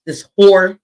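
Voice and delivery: throat-shouted insult; throaty shout. Shown as a demonstration. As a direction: belt it from the throat. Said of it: "I said it with my throat".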